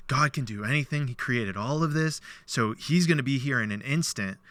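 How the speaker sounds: overflowing with joy at the news; joyful. Retold or imitated. Drunk man rejoices that God will come. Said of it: "elates with joy".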